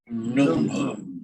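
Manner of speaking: Num Num said as a model to repeat; Arabic name said carefully. Shown as a demonstration. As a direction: lead the room in saying Num Num. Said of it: "say my grandmother's first name with me".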